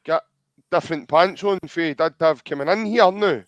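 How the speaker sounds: lightly imitating a tipsy mate's nagging voice; a hint of a boozy friend teasing; mock drunk voice. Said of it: "then you hear that voice going".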